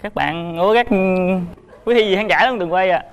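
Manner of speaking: stumbling, nervous self-introduction; real nerves, hesitant formal greeting. Real, not acted. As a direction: greet the audience with stage nerves, faltering between phrases. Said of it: "Gì mà run dữ vậy".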